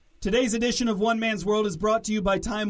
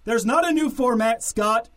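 angry; 4 semitones higher, 4 dB louder than usual. Acted. Host snapping back.

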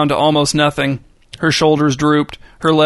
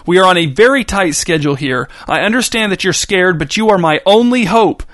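angry shout; 4 semitones higher than usual. Acted. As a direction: shout at her, raw with pain and outrage. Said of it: "Page's father shouted at her, his voice raw with pain and outrage".

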